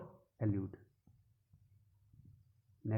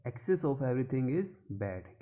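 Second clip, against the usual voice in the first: slow example read; much slower than usual. Shown as a demonstration. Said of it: "तो वही है".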